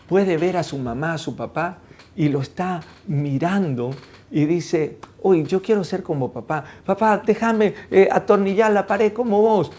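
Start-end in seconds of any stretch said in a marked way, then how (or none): 5.2-9.7 put-on higher, pleading kid voice; lightly voiced excited kid; eager child. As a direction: play a little son begging to help dad. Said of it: "cuando el niño, el hijo".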